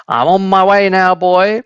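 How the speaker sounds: high, gleeful call downward; excited cry. A narrator's reading. Grandma cries down to George as she shoots upward. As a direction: call down in wild delight. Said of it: "she cried down to George".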